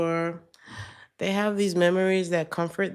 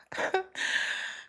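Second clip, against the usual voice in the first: breathy raspy chuckle; a smoker's wheezy laugh; smoker's rasp laugh; 5 dB quieter than usual. Real, not acted. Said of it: "I sound like I've been smoking Virginia Slims".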